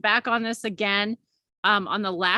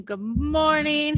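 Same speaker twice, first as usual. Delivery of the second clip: high, slow stretched good morning; drawn-out greeting; 6 semitones higher, slower than usual. Real, not acted.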